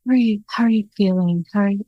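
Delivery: fast, airy therapist voice imitation; mock gentle counselor, rushed; breathy therapy talk. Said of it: "the breathy therapy talk".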